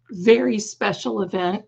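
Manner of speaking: hoarse, scratchy host greeting. Real, not acted. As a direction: greet them through a hoarse voice. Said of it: "Pardon the voice".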